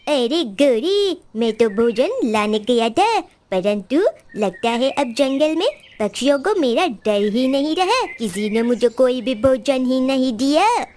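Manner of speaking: Kalu the crow. Acted. Crow tells wife no bird gave him food, grumbling.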